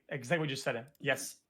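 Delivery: usual speaking voice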